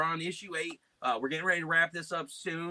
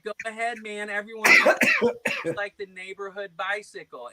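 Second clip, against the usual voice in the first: high voice building louder; put-on prank retort; 7 semitones higher, 5 dB louder than usual. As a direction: goad the caller in a silly high voice.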